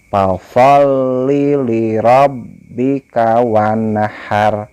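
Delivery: slow, melodic chant with long vowels; Quran recitation. Shown as a demonstration. Teacher models the verse for pupils, slow chant. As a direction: recite slowly, stretching each vowel. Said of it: "dibaca linya pendek".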